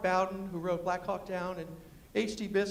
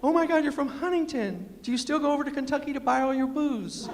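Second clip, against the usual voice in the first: high, excited teasing question; 5 semitones higher, 4 dB louder than usual. Retold or imitated. Speaker meets someone from Huntington, high and excited. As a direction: gush at a fellow West Virginian. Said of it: "I get excited".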